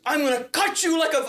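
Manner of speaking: put-on high, agitated Armenian-accented threat; imitated Armenian threat. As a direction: mimic an Armenian man threatening someone. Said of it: "the Armenian guy. He goes".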